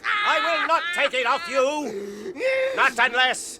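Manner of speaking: loud, slow, firm shout; stern angry refusal. Acted. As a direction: refuse him with force. Frodo refuses firmly.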